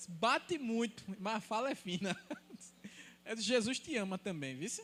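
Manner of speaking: chuckling through the punchline; laughing. Real, not acted. Pastor retelling a brother's teasing, laughing. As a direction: laugh while repeating the joke. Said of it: "A mensagem foi só lapada".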